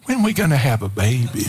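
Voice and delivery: wry teasing. Retold or imitated. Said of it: "reach over to Sharon and go".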